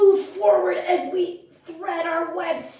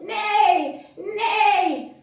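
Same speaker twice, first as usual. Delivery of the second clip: higher neigh that falls away; playful horse neigh; 4 semitones higher, 3 dB louder than usual. Pretend. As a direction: call out a pretend neigh. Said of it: "we're gonna neigh".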